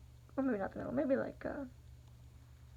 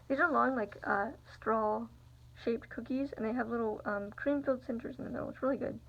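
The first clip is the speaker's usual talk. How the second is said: mouth full. Real, not acted. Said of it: "Sorry, I keep eating".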